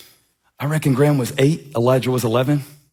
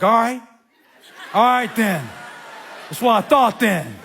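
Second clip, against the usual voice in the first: smug laughing; 5 semitones higher than usual. Retold or imitated. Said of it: "I was like".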